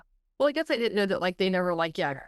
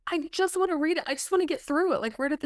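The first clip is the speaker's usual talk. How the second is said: exasperated plea; 10 semitones higher, faster than usual. Retold or imitated. Frustrated self-quote, emotion welling.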